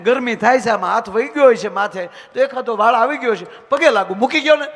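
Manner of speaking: loud pleading wife. Retold or imitated. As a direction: beg him to keep it down. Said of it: "wife pleading with husband".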